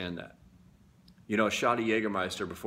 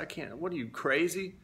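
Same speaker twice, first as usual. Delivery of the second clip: higher-pitched, retold disbelief; incredulous refusal; 7 semitones higher than usual. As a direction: balk at a crazy suggestion. Retold balking at girlfriend's dare.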